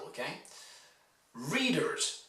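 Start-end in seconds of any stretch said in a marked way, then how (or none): 1.3-2.2 READ-ers, weight on the start of 'Readers'; 'Readers' with strong READ, weak ending; first-syllable stress. Shown as a demonstration. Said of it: "stressed on the first syllable".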